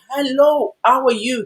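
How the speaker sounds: friendly greeting. Acted. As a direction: act out greeting someone in passing. Voicing a friendly greeting to people.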